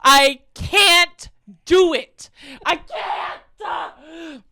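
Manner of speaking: shrieking laughter, high and loud; can't breathe for laughing, squealing high; helpless high-pitched laughing fit; laughing hard. Real, not acted.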